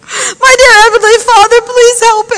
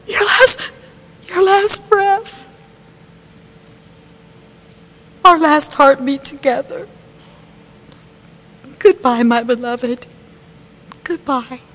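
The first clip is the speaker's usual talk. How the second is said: quieter and lower, slowing to a last whisper-soft goodbye; fading farewell; 7 semitones lower, 8 dB quieter than usual. Acted. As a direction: let the voice die away with him. Son's last breath.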